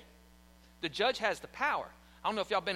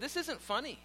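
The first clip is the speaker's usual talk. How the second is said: stern judge; 3 semitones higher than usual. Retold or imitated. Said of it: "he said".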